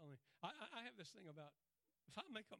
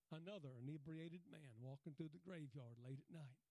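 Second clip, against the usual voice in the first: ordinary delivery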